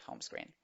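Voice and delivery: "screen" said with an ee sound; double E as I. Shown as a demonstration. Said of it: "Esta doble E suena como una I". ("screen" con la doble E como i)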